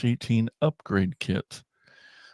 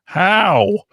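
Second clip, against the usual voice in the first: high, loud, incredulous-style "How?" impression; Tiff; 9 semitones higher, 7 dB louder than usual. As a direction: imitate her outburst, pitched way up and loud. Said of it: "I think is how she said it".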